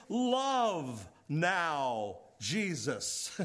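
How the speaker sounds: "Love" drawn out and set apart, then "now, Jesus"; emphatic word order. Shown as a demonstration. Preacher shows the verse's first word, stressing "Love" emphatically. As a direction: lean on "Love", pausing before "Jesus". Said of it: "which means that it's emphatic".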